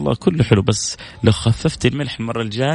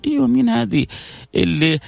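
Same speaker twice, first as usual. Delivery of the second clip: devil whispering; 3 semitones higher than usual. Acted. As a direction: egg him on like the devil. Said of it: "طبعًا الشيطان هنا".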